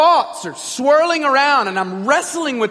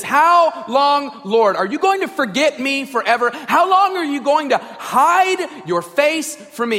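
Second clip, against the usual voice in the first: direct challenge to God; 4 semitones higher, 3 dB louder than usual. Acted. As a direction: put it squarely to God, emphatically. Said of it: "David goes directly at God".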